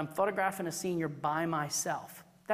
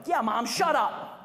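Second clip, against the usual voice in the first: slow, deadpan mock put-down of mom; siding with the teen; 3 semitones higher, 5 dB louder than usual. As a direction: drag it out, teasing mom alongside the teen. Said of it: "I've been known to go".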